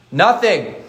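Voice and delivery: NOTHING set apart and hit hard, falling; emphasized word. Shown as a demonstration. Preacher to congregation, punching one word with a firm fall. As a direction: lean into the single word Nothing, firm and final. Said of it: "And I emphasize that word".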